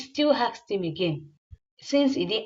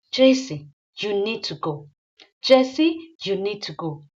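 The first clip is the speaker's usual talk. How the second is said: raised, commanding name call; sharp call; 4 dB louder than usual. Acted. Man ordering his ex to leave the house, calling sharply. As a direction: bark her name to stop her.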